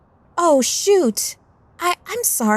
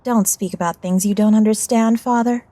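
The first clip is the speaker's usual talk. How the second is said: put-on high, loud teenage outburst; heated, high-pitched rebuke; indignant retort; 13 semitones higher, 5 dB louder than usual. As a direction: talk back sharply to a parent. Teen snaps back at teasing father.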